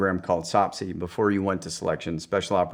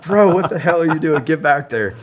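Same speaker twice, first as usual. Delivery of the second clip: incredulous buddy; 8 semitones higher, 7 dB louder than usual. Retold or imitated. Buddies react to naked run.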